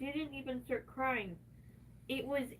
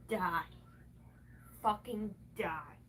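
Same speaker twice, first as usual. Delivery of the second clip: whispered curse; 5 semitones lower, slower than usual. Real, not acted. Hissing at herself.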